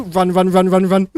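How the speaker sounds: loud urgent shouts of run; panicked yelling. Real, not acted. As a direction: yell at yourself to flee. Fleeing attacking creatures.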